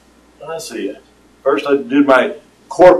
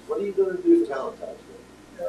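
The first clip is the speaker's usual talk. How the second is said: a much higher, lightly hammed-up woman's voice asking about Valentine's Day; high mock woman; 7 dB quieter, faster than usual. Retelling the coworker's Valentine's question in a high mock woman voice. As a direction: pitch way up to play her asking. Quoting the woman a second time.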